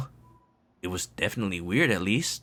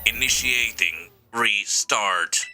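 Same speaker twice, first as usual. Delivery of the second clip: slow robot voice; much slower than usual. Acted. AI rebooting.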